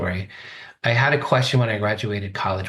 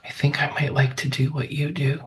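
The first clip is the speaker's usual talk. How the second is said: higher, timid, tentative voice; meekly retold, higher and hesitant; 6 semitones higher than usual. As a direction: offer it shyly, pitched up. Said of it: "I very meekly said".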